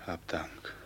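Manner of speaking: hushed thanks to heaven; whispered prayer. Acted. Captain thanking the ruler of fate, whispering. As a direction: breathe the thanks.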